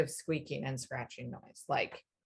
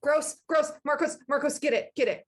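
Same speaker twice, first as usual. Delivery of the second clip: squealing panic; 5 semitones higher, 4 dB louder, faster than usual. Acted. Player's character panics at a rat.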